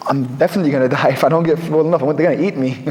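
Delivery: quick, amused retelling of a fearful thought, breaking into a laugh; laughing at herself. Retold or imitated. Stranded on a mountain, she laughs at her fear of dogs while speaking fast. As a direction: laugh through the old fear as you rush it out.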